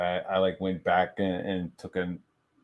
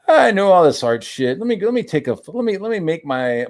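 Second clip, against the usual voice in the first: retold teenage bravado; 9 semitones higher, 8 dB louder than usual. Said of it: "I was like".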